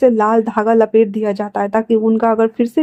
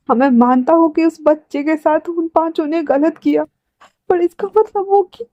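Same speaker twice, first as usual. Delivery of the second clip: high-pitched, hurt disbelief; distressed outburst; 4 semitones higher than usual. Acted. Brother reacting to his loss, distressed and high-pitched. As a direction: protest in a pained, raised pitch.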